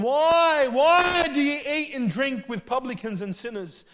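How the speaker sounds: high, loud indignant challenge; accusing Pharisees. Acted. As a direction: demand it like an offended scribe. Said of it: "murmured against the disciples, saying".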